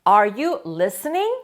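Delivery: Are you listening? said very slowly with a rising end; slow model question. Shown as a demonstration. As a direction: spell out the question slowly for the class. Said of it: "teacher models the question".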